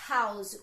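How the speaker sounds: "House" said with the h sound heard at the start; h-sound demo. Shown as a demonstration. Teacher showing the class the h at the start of house. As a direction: make the h in "House" audible. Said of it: "O som tá vindo aqui do H".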